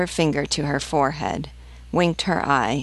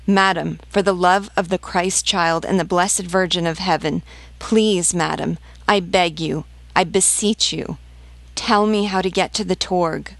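higher-pitched, urgent entreaty; pleading; 3 semitones higher than usual. Acted. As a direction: beg her earnestly for help. Desperate mother begs for directions.

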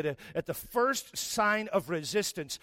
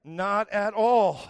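blunt mom; 3 semitones higher, 6 dB louder, much slower than usual. Retold or imitated. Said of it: "her looking at me like".

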